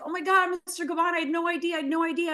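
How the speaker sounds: high, rapid panicky pleading; shaken apology. Retold or imitated. Young host begs the angry designer's pardon, panicky and high. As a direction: gush a flustered, frightened apology. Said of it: "So I'm shaking".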